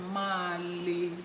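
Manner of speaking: "Male" sounded out in two syllables, MAH-leh; misread sign. Acted. Yoruba man reading bathroom sign, misreading "Male" as mah-leh. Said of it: "He's reading male as máa le".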